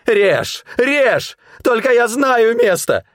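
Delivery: very high screaming dare; defiant scream. A narrator's reading. Hunter screaming at Nikło to cut him. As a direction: scream it with a blade at his cheek. Blade at his cheek, defiant.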